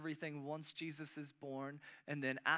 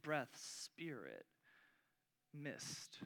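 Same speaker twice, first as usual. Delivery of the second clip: soft fading; 2 semitones lower, 10 dB quieter, much slower than usual. Acted. Softening while defining pneuma.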